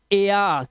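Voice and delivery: एया drawn out as "ay-aa"; EA glide sound. Shown as a demonstration. Teacher showing the sound in rare, slow gliding एया. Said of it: "की आवाज".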